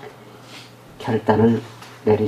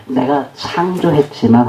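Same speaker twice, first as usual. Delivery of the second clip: slow, understated sorrow; poignant; 3 semitones lower, slower than usual. Acted. God grieving over what was created, poignant. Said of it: "정말 짠한 구절은 뭐냐면요".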